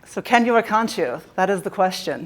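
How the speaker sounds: put-on British accent for a Shakespeare line; lightly acted British accent. Speaker quoting Shakespeare to the audience, lightly put-on British accent. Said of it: "That was my British accent".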